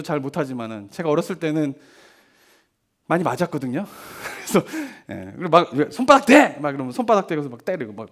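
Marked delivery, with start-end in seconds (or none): 5.9-6.6 imitated sharp parental command; parent's order. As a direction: briefly mimic a parent ordering punishment. 부모가 체벌하려 명령하는 장면. (매를 든 부모 흉내 내며 명령조로)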